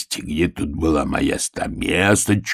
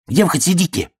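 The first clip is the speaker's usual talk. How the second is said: higher, teasing sing-song; mocking the bear cub; 6 semitones higher than usual. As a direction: mimic the cub to poke fun. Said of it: "передразнивая медвежонка".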